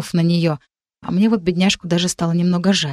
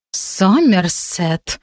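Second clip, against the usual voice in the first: tense through teeth; much slower than usual. Acted. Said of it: "процедила рыжая напряжённо".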